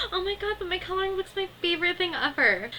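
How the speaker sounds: high whiny half-sob; mock crying toddler. Lil whimpering over giving up her coloring book, mock cry. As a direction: wail about losing the book, hammed up.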